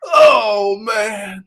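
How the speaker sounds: breathless laughing oh man; wheezing through laughter; crying laughing. Real, not acted. Host recovering from the clip, crying laughing. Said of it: "I was crying laughing".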